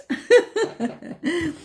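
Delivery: bright high burst of laughter. Real, not acted. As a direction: laugh at the own whiny voice. Laughs after whiny quote.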